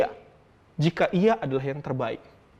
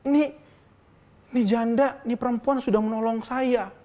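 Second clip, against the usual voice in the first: distressed Elia; 6 semitones higher than usual. Retold or imitated. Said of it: "Elia sebenarnya sedih banget".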